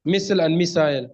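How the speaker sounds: "Missile" first as MISS-ul, then "missile" as MISS-eye-l; contrasting MISSILE. Shown as a demonstration. Listener offering an example, "Missile" as MISS-ul, then MISS-ile. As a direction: say "Missile" with a weak vowel, then with a long eye. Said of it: "where you have I sound in British English".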